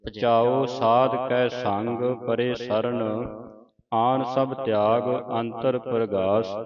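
slow, drawn-out reading of verse; scripture recitation. Acted. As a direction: recite it slowly, word by word. (ਧੀਮਾ ਗੁਰਬਾਣੀ ਪਾਠ)

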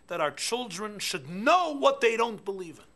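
slow, high, loud quoted declaration; lightly voiced Golda Meir; quoting Golda Meir. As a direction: pronounce it like a firm statesman, slowly. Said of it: "she supposedly said".

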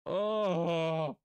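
loud high burst of oh; excited oh. Real, not acted. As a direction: blurt it out, overwhelmed. Reacts to purchase done.

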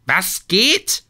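high, loud shriek; shrieking Aphrodite. A narrator's reading. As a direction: shriek it, outraged goddess. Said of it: "kreischte Aphrodite". (kreischend, hoch und laut)

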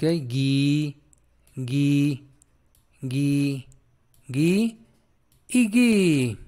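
"gui" repeated as drawn-out ghee, separated by pauses; hard G drill. Shown as a demonstration. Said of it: "se pronuncia gui".

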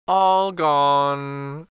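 a fox gloating over his meal; a hint of a wicked snicker; mild sly chuckle. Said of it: "said the fox, licking his lips".

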